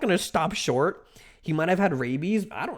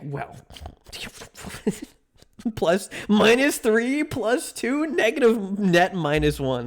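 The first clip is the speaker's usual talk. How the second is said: lightly voiced cold calculator; mock chat tally; 5 semitones higher, slower than usual. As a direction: coolly count the points. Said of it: "you guys are just like".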